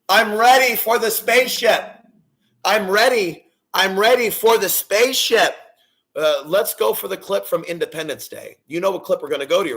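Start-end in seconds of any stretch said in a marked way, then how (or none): 0.1-5.6 excited. Pretend. Excited about aliens coming.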